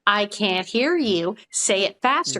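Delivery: slow mocking taunt; cruel taunting. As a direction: sneer it, drawn out. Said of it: "And I say".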